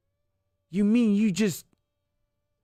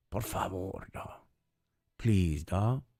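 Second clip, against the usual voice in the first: dismissive; 10 semitones lower, 6 dB quieter, slower than usual. Real, not acted. Dismissive aside, very soft.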